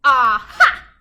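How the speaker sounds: loud triumphant shout. A narrator's reading. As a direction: burst out with a sudden idea. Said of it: "she shouted with a jump".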